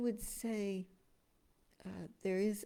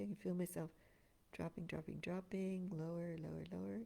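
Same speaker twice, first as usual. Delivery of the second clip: sinking energy; 8 dB quieter than usual. Shown as a demonstration. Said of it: "you can hear the difference in my voice".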